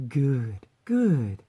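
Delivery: put-on slow, menacing British-accented villain; Palpatine. Succubus demanding devotion and souls, slow villainous gloating. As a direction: draw it out like an evil emperor. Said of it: "Palpatine-like".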